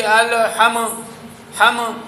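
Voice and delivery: meem of الحم released into a short vowel; mispronounced qalqalah. Shown as a demonstration. Teacher shows what goes wrong, bouncing the meem. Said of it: "یہ غلط ہو جائے گا".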